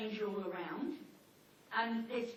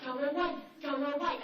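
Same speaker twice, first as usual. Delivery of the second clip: loud yelled go away; barking dog; 4 semitones higher, 5 dB louder than usual. Pretend. Dogs yell at the postman, loud and high. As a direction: bark the words out. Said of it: "They're like".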